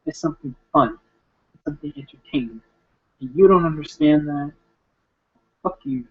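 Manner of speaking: a light imitation of a preachy, scolding Daddy, rising at the start; Daddy impersonation. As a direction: lecture them as Daddy would, half-mocking. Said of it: "My best, like, Daddy's impersonation I can do".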